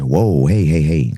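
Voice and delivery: loud startled whoa; a hint of affront; mock surprise. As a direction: pull up short, mock-shocked. Reacting to rude answer.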